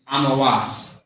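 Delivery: Amawas as AH-muh-wahs, three syllables; Hebrew pronunciation. Shown as a demonstration. Teacher giving the Hebrew name, Amawas as AH-muh-wahs. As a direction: say Amawas with open "ah" sounds. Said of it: "in the Hebrew".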